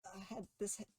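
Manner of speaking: apologetic Olivia. Acted. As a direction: fumble for words, backing off. Game master voices Olivia.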